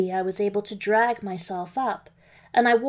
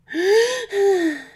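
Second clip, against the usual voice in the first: high wheezing gasp for air; breathless gasp; 11 semitones higher, 5 dB louder than usual. Acted. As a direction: gasp like an asthmatic wolf out of breath. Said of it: "the huffing started because I couldn't breathe".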